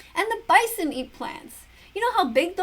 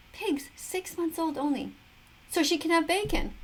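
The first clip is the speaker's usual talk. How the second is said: normal talking voice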